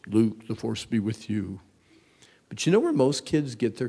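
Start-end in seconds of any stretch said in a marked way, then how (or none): 0.1-1.6 movie voice. Retold or imitated. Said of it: "maybe even the Force".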